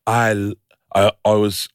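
put-on searching for an Irish-Scottish accent. Comic hunting for the survivor's voice, uncertain Irish-Scottish accent. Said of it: "Irish, Scottish".

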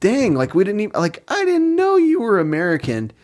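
surprised dang. Retold or imitated. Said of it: "and then we go".

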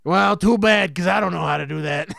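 loud, fast teacher outburst; shouting. Acted. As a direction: snap back at the kid. Teacher shouts at pupil in skit.

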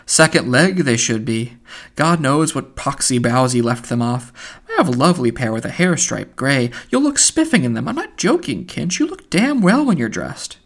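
airy, teasing praise; breezy Buck Mulligan. Acted. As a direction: coax him cheerfully. Mulligan offering trousers.

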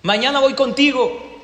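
slow, loud, high-pitched threat; drawn-out tsar's shout; threatening announcement. Acted. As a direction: proclaim it slowly as a menacing order. Tsar threatens the next man.

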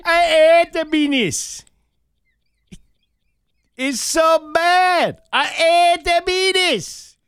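put-on slow, high, loud Jamaican accent, H's dropped. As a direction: stretch every word out in a hammed-up Jamaican accent. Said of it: "without the H and you in a Jamaican voice".

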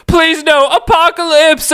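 hammed-up pleading; begging. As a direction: beg him desperately. Archangel begging Apocalypse.

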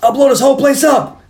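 high, strained mock villain yell; hammed-up bomb threat. Bad guy threatening to blow the store, mock yelling. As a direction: shout it high, drawing out the words.

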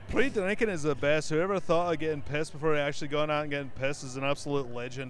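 light Scottish accent, mock praise; hint of a Scottish accent, mock praise. Host reads a tweet to cohosts in a light Scottish accent. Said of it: "read some Scottish tweets in my best Scottish accent".

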